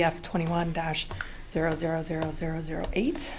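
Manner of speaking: out of breath. Real, not acted. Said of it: "I'm still a little catching my breath".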